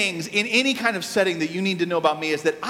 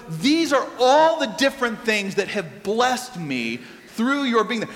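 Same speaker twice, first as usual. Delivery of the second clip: slow sincere blessing. Retold or imitated. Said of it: "You had to stop for, like, two minutes and go".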